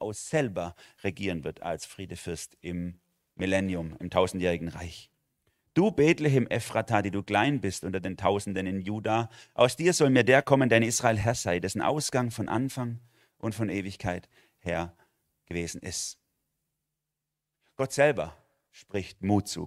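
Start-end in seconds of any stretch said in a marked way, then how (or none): 5.7-16.2 raised, solemn Bible reading voice; scripture reading. Acted. Preacher reads the prophecy to the church, solemn and raised. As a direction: proclaim the verse to the congregation.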